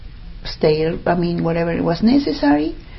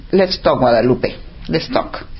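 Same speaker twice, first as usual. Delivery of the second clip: self-talk; 8 semitones lower than usual. Retold or imitated. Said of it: "when something is really important, then I say".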